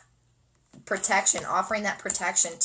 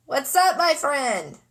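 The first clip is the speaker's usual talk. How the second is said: put-on greeting voice; 4 semitones higher, slower than usual. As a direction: greet like a cheery auntie.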